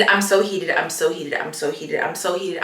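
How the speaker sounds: rapid repeated venting, sinking in pitch and volume; simmering down under the breath; heated muttering. Real, not acted. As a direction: repeat it like a frustrated mantra, dying down. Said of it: "I am so heated".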